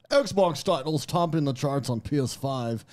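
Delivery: slow, stuck-up reading of the comment; snobby voice. Retold or imitated. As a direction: read it like a snob looking down on you. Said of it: "that was my snobby voice".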